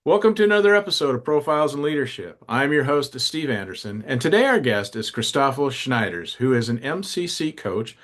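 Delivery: lively scripted guest introduction; polished show-opening read; podcast host introduction. Acted. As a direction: announce the guest with energy.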